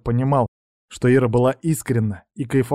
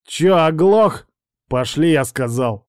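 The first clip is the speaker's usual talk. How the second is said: angry; 2 semitones higher, 4 dB louder, slower than usual. Acted. Man drags harasser out.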